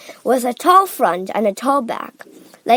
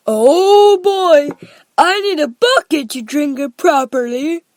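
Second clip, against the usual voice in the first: put-on high, loud boyish delight; greedy excitement; 5 semitones higher, 7 dB louder than usual. A narrator's reading. Augustus wanting more chocolate, loudly excited. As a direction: gush eagerly, starting high.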